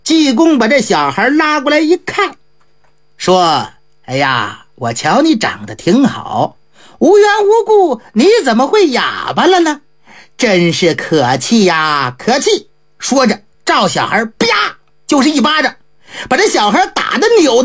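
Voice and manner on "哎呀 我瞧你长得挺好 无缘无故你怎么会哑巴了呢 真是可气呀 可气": lightly voiced monk feigning irritation; Ji Gong's mock annoyance. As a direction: lower monk voice with a touch of mock anger. Ji Gong scolds the mute boy.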